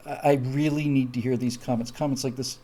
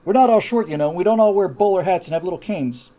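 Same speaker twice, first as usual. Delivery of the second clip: offended Irish protester; 8 dB louder than usual. Retold or imitated. Mocking easily offended people: indignant mock protest. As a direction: play the touchy offended party, huffing it out. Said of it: "people that made a living taking offense".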